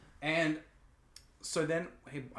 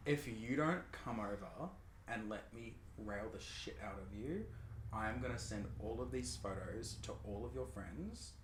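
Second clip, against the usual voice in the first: menacing blackmailer; 2 semitones lower, 6 dB quieter than usual. Retold or imitated. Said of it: "and goes".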